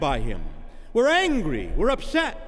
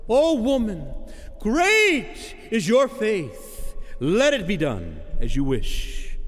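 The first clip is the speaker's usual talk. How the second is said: solemn blessing; 4 semitones higher, slower than usual. Acted. Jesus proclaiming to the woman, slow and solemn. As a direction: bless her slowly and gravely.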